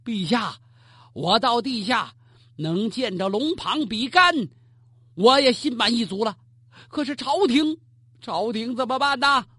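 拼着命喊给皇上听; 大声嚷. Acted. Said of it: "朱云大声吵嚷啊". (朱云抱着栏杆大声向皇帝哭喊)

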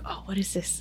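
hushed whispered wonder; whispering to herself during the prayer. Retold or imitated. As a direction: whisper it, puzzled. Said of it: "So I was like".

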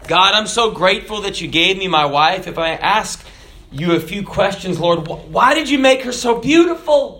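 lightly acted husband, pitch lifting; grateful man praying. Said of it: "So the man said".

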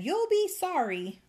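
high, loud, indignant warning; angry threat. A narrator's reading. Fairy threatening the old man, angrily. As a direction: land the threat high and forceful. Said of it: "the fairy grew pink with anger".

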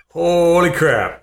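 drawn-out alarmed "holy crap"; slow, wide-eyed dread at the ants; startled whisper-ish gasp. Retold or imitated. Soldier waking to ants on his leg, slow alarmed.

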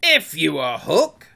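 almost humble appeal; ingratiating. A narrator's reading. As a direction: try to win the stranger over. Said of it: "tried a more ingratiating manner".

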